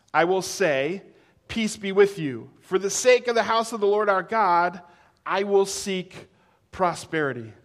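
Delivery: measured, declaimed psalm reading; scripture reading. Acted. Preacher reading a psalm to the congregation, formal read-aloud. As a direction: read it out to the congregation with firm phrasing.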